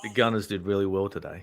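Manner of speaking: weak attempt at a Cockney accent; half-hearted Cockney accent, slightly low. Shown as a demonstration. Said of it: "say in a Cockney accent".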